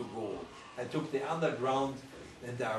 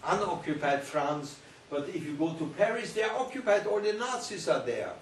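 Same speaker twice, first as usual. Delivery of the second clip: cousin warning; 4 semitones higher than usual. Retold or imitated. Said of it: "my cousin said".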